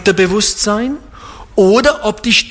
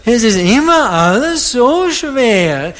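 higher, slow, whining voice; whiny complainer; 4 semitones higher, slower than usual. Pretend. Preacher imitating whiny people for the congregation, whining. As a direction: moan it like someone always complaining. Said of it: "die reden immer so weinen".

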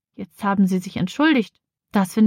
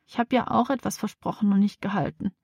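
a softer, understated moan; mild whining; 5 dB quieter than usual. Acted. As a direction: quietly lament your own broken promise. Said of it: "jammert sie".

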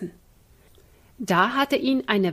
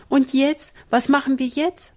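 higher, helpless questioning; at a loss; 6 semitones higher, 5 dB louder than usual. Acted. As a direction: stress on machen, clueless. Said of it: "fragte Ina ratlos".

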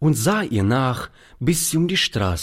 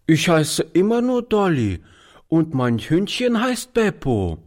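put-on little girl; 8 semitones higher than usual. A narrator's reading. Little girl names herself, dog.

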